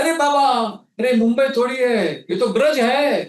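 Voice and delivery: put-on high, fast, fervent old Brajvasi insisting; intense conviction. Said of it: "with such intensity and conviction".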